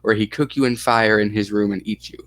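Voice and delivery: put-on lightly Russian-accented child; broken English with a put-on Russian accent. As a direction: list the threats in a mild Russian accent. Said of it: "So you like the Russian accent".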